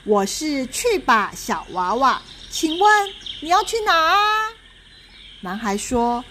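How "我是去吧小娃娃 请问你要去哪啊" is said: a lightly voiced cheery doll, rising at the end; hint of a giggly doll; cheerful little doll. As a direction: sound bright and eager to help. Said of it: "笑嘻嘻地说".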